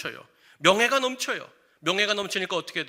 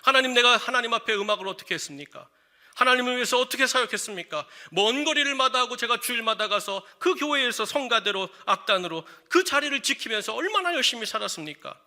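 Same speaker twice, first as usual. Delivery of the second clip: impassioned, acted-out grievance to God; resentful protest; 3 semitones higher than usual. Musician protesting to God after losing the instrument, resentful. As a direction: plead your case resentfully, retelling it. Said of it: "원망했다는 거예요".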